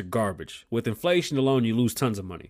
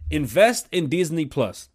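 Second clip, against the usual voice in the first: first take; slower than usual. Shown as a demonstration. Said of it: "I'm sorry that I said it that way".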